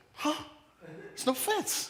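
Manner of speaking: high, slow amazed realization with a laugh.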